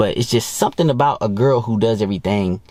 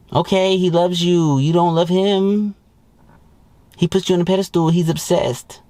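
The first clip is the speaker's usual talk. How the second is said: raised mocking voice, jeering at her; mocking high voice; 7 semitones higher than usual. Host mocking a bragging wife, in a high jeering voice.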